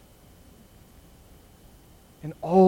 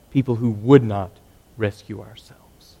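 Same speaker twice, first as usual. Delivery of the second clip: hushed whisper; 7 semitones lower, 5 dB quieter than usual. Real, not acted. Preacher drops to a hush.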